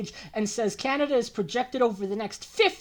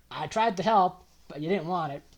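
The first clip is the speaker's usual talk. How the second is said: imitating the Joker; 6 semitones lower than usual. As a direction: play a mock villain muttering from the corner. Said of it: "laughing like the Joker in the corner".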